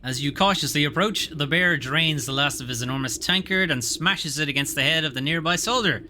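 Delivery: story narration. Acted. Reading item and scene text.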